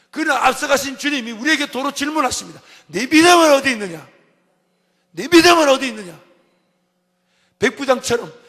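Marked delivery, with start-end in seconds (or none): 2.9-6.2 high, very loud question; preached shout. Acted. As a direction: thunder the question at the congregation.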